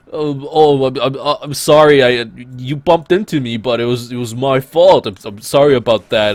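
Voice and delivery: mock Canadian accent with a slurred tough-guy touch; Sylvester Stallone. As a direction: apologize in a hammed-up Canadian accent. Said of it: "that's like my Canadian Sylvester Stallo-, Stallone accent".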